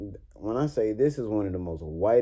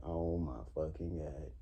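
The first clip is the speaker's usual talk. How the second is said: exasperated; 4 semitones lower, 12 dB quieter than usual. Retold or imitated. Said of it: "I'm like".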